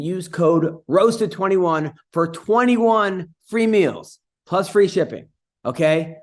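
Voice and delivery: slow, deliberate ad read. Acted. Host reading a sponsor plug to the audience, slow ad read. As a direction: spell out the promo code slowly for listeners.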